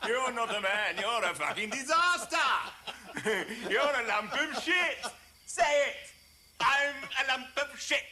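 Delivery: mock him with cackling scorn; cruel laughing taunt. Father jeering at his dishevelled son, laughing cruelly.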